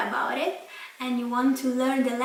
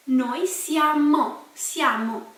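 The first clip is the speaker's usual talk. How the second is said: "siamo" slowly, leaning on the ending "mo"; slow, clear ending; 3 dB louder, slower than usual. Shown as a demonstration. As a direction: spell out "siamo" at half speed. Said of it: "This M O you should remember".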